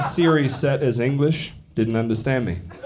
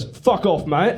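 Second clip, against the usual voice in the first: retold annoyed Australian; 6 semitones higher, slower than usual. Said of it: "he literally goes".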